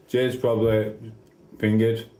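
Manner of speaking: drowsy, nodding off mid-sentence; sleepy, losing the thread of words; half asleep. Real, not acted. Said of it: "Sorry, I'm half asleep".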